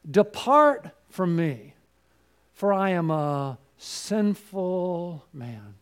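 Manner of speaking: drawn-out, grave words of Peter; slow confession. Acted. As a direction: stretch it out like a broken man.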